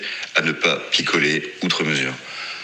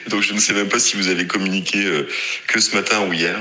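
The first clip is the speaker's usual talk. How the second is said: ordinary delivery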